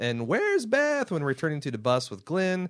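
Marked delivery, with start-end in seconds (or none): 0.3-1.1 yelling loudly. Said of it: "Maggie yells".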